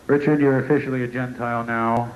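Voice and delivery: low, lightly voiced God; a hint of a booming deity dismissing him. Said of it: "God actually talks like that".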